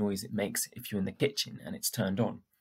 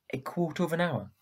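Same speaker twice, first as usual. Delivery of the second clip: uncertain; 5 semitones higher than usual. Acted. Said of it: "she asked uncertainly".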